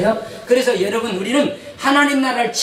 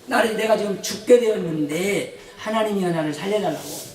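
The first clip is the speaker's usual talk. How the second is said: acted plea with a touch of urgency; earnest pleading. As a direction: imitate Jacob begging for his life. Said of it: "간절히 애원하면서". (간절히 애원하는 흉내)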